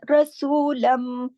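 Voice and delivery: very slow रसूलम, final mim nasal; recitation. Shown as a demonstration. Teacher demonstrating ghunna, slow chant. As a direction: hum the mim. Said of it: "अकमल गुन्ना".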